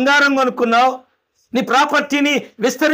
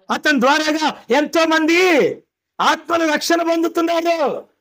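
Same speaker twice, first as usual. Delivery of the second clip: pitched up higher and higher, preaching the driver's good work; God's rising praise; 4 semitones higher than usual. Acted. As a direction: climb in pitch as you preach. God praising driver's tithe. (డ్రైవర్ని పొగుడుతూ దేవుడు ఎత్తైన స్వరంలో బోధిస్తాడు)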